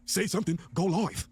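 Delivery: hint of a mimicked West Coast accent; put-on West Coast accent. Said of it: "that's how nigga said this shit".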